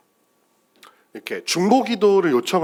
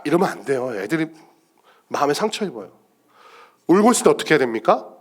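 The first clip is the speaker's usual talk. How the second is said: usual speaking voice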